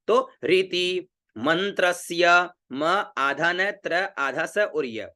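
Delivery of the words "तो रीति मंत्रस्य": रीति with both री and ती short, मंत्रस्य said slowly; teacher modelling रीति मंत्रस्य slowly; slow careful pronunciation. Shown as a demonstration. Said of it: "री छोटी और ती छोटी".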